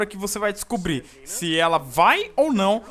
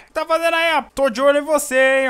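put-on grumpy old man; 6 semitones higher, 6 dB louder than usual. Old man shouting at kids.

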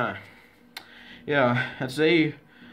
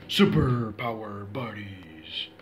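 dramatic whisper; 5 semitones lower, much slower than usual. Pretend. Child announcing the superpower team in play, hushed whisper. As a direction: whisper it out very slowly.

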